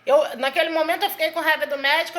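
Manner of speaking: usual speaking voice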